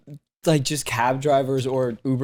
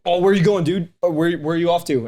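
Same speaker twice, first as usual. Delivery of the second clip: imitating an overly friendly driver, pitched up a little; 3 semitones higher than usual. Driver chatting up a passenger, overly friendly. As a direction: play the chummy driver, too eager. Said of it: "he just got overly friendly".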